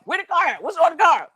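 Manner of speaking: high, loud incredulous husband; disbelieving husband. Retold or imitated. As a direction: demand answers in shock. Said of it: "husband voiced disbelieving".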